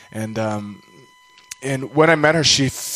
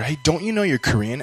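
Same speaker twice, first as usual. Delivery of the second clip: mildly snarky, pitched-up taunt; retold needling question with a higher lilt; snarky cousin; 4 semitones higher than usual. Cousin breaking the secret to her, mildly snarky. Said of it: "snarky and, and mean".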